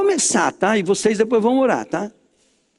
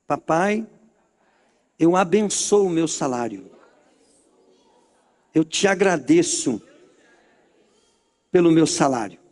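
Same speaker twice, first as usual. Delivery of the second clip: lower-pitched prayer in separate phrases; led prayer; 4 semitones lower than usual. Acted. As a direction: pray thanks slowly enough to be repeated. Leads prayer of thanks.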